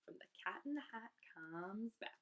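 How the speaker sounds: soft whispered aside. Shown as a demonstration. Reader whispers the book title after the quote, hushed. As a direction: breathe the title like a secret.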